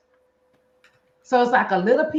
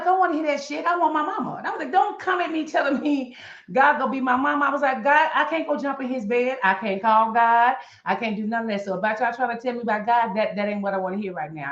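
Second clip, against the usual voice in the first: irritated retort; 3 semitones higher, faster than usual. Retold or imitated. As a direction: brush off the pious comfort. Retold angry retort to comforters.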